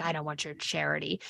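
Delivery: low, soft, fast, harsh, cold stern voice. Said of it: "this mom that's super harsh and stern is just like".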